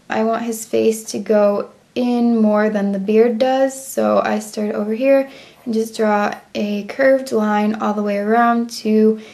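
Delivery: even robot-like monotone. Real, not acted. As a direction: talk like a robot while drawing. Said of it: "I'm talking like a robot".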